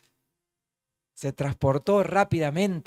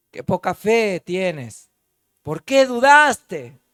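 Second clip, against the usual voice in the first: gentle rebuke; 5 dB louder, much slower than usual. Acted. Jesus rebukes Peter.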